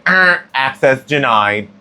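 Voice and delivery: slow, deadpan machine announcement; lightly mocking an automated gate; intercom voice. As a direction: read it like a robotic door system. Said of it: "the denial buzzer".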